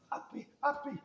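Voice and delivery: put-on high little-girl voice asking to be lifted; toddler begging. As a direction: plead like a two-year-old, pitched high.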